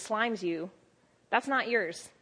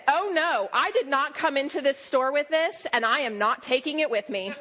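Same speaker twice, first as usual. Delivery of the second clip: loud, higher, firmly refusing; out loud declaration; 4 semitones higher, 5 dB louder than usual. Retold or imitated. Preacher retells rebuking the headache aloud, loud and laughing. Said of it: "I said out loud".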